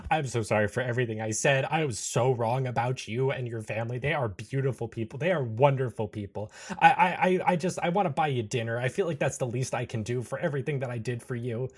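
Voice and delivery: hurried, gushing apology; babbling apology. Acted. Anderson apologizing to Chris and his family, babbling. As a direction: tumble over yourself apologizing. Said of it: "babbling an apology towards Chris".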